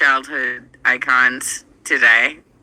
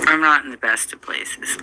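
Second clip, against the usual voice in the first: whispery and weak after surgery; tired post-surgery whisper. Real, not acted. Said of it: "I had surgery this morning".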